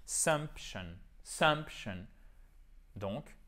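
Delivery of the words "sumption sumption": "sumption" with stress on sump, shun falling away; accent tonique. Shown as a demonstration. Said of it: "l'accent tonique sur la syllabe qui est juste avant". (« sumption », accent tonique sur sump)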